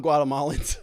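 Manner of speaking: breathy mock whisper, no voice; mock whispered aside. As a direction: whisper the word as a teasing afterthought. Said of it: "this is the same thing that Kamala did".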